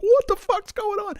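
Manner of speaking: very high retold cry of confusion; acted-out squeal of alarm. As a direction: yelp it high, bewildered. Retells his alarm, repeated.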